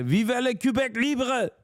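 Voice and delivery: high, slow, hammed-up rallying cry in put-on French; mock separatist cry. Streamer reading chat, mocking a separatist with a put-on rallying cry. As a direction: proclaim it like a mock Quebec patriot.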